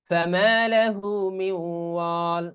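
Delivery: slow recited ফামা লাহু মিন ওয়াল; মিন ওয়াল glided as miw-waal, nasal and held; idgham into waw. Shown as a demonstration. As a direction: stretch the vowels of ফামা and ওয়াল. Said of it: "তাহলে কিরকম উচ্চারণ হবে".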